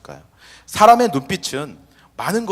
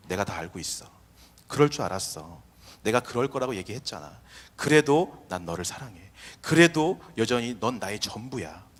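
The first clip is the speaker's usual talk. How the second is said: softer, gentle voice, unhurried by the last line; tender loving reassurance; 4 semitones lower, 5 dB quieter than usual. Pretend. Jesus speaking tenderly to the fallen disciple, softly. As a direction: speak it softly, like holding someone who failed. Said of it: "사랑으로 우리를 바라봐 주신다".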